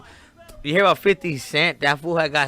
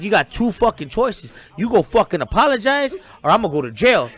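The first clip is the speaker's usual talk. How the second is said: retold threat; 4 semitones higher, 4 dB louder than usual. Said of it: "I'm like".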